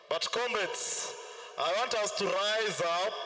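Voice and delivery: high rousing rally chant; fiery revolutionary speech. Real, not acted. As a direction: fire up the crowd. Rallying the crowd to rise.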